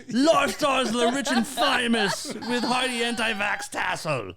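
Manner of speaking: high, hammed-up TV host impression; Robin Leach. Host mocking co-host's accent, grand TV presenter impression. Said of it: "you sound like Robin Leach".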